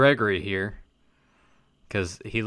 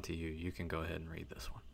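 whisper; 4 semitones lower, 16 dB quieter, faster than usual. Real, not acted. Passing the letter to cohost.

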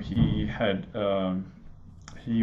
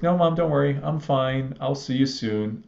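calm, reassuring son playing it down; calmest voice; 4 semitones higher than usual. Wounded son calming his frantic mom on phone, calmly. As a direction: keep it easy, no alarm in it. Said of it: "with the calmest voice in the world".

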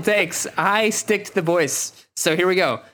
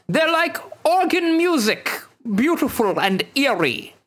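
spy director voice; 9 semitones higher than usual. Acted. Host voicing Aubert, spy director.

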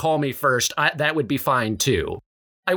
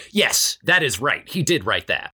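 tour guide. Acted. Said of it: "Tour guide".

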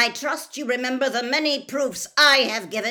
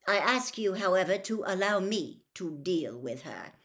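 higher, brisk, firm formality; curt; 4 semitones higher, 6 dB louder than usual. A narrator's reading. Mister Crouch requesting to deal with his elf, curt. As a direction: state it curtly and officially. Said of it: "said Mister Crouch curtly".

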